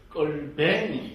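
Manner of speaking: drawn-out Gyeongsang dialect word. Shown as a demonstration. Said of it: "경상도 말로 하면은". (경상도 사투리로 길게 늘여서)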